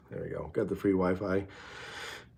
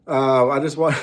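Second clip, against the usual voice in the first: a touch of whiny nagging wife; sounding like a wife. Pretend. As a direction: whine it a little like a wife. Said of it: "you sound like my wife".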